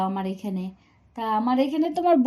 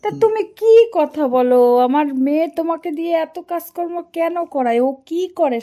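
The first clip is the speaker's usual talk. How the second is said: mildly outraged, higher, starting loud; indignant; 4 semitones higher, 4 dB louder than usual. Acted. Mother-in-law questioning son-in-law about her daughter, mildly indignant. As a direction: protest on his behalf, pitch lifted.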